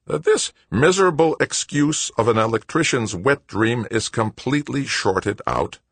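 high-pitched exasperated mechanic; exasperated Wojo. A narrator's reading. Wojo's figure voice, cursing the tractor.

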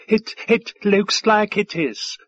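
high, slow stammering servant; wailing. A narrator's reading. Waiter guessing for Five Tide, wailing. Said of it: "the waiter wailed".

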